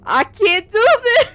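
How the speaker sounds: high, loud, slow half-crying panic; panicked whimper. Retold or imitated. Alone in the house, panicking, high crying voice. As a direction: act out the retold panic, voice cracking. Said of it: "And I'm just like".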